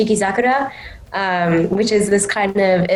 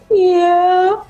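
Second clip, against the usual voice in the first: high dreamy voice; 11 semitones higher, 3 dB louder than usual. Retold or imitated. Anne answers during the hug.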